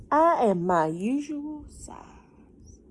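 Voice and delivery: slow, breathy whisper of the line. Acted. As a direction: whisper it slowly like a secret. Harold's line, repeated later.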